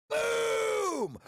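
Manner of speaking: very high, loud shout; excited boom. Real, not acted. Trade hits the target, real triumphant shout. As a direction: yell it in triumph.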